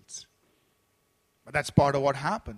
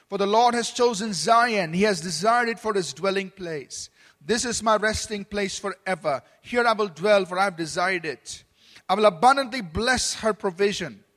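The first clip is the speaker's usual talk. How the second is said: solemn scripture reading; 2 semitones higher, 3 dB louder than usual. Acted. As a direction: proclaim each verse a little louder, like a preacher reading Psalm. Reads scripture aloud.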